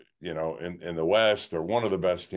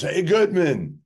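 higher, mock call from a car; retold yell; 8 semitones higher, 4 dB louder, slower than usual. Chuck hailing a friend from a limo, retold yell. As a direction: imitate someone hollering a greeting. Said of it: "sticks their head out a limo and yells".

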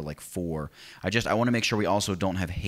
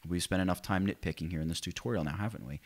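smug, talking-down teacher tone; condescending voice; 5 dB quieter than usual. Pretend. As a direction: say it like you're patronizing the class. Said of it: "that's my condescending voice".

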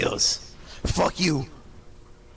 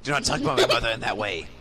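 stern master voice; faster than usual. Acted. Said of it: "from that voice".

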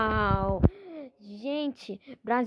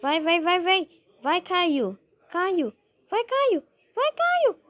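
explosive goal commentary; 6 semitones higher, 5 dB louder, slower than usual. Real, not acted. Urging player to score.

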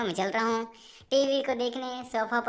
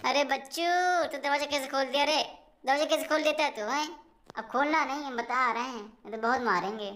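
half-playful scolding, pitch up; 4 semitones higher than usual. Real, not acted. Scolding baby who opened door. (बच्चे को ऊँची आवाज़ में हल्का डाँटते हुए)

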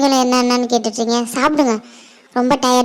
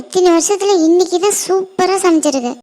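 high-pitched, eager compliment; delighted praise; 5 semitones higher than usual. Acted. Child praising mother's cooking, delighted praise. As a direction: gush over the meal, voice up high.

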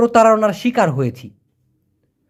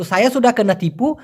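slow Malay phrase; 2 semitones higher, much slower than usual. Shown as a demonstration. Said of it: "teacher models Malay phrase".

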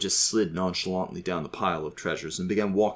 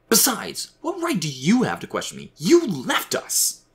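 high, heated accusation; angry; 11 semitones higher, 4 dB louder, slower than usual. A narrator's reading. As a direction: challenge him, building to a loud, drawn-out finish. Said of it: "he said angrily".

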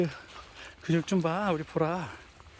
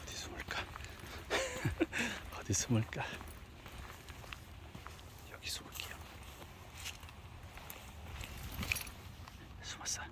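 whispering while hiding; 5 semitones higher, 13 dB quieter than usual. Real, not acted.

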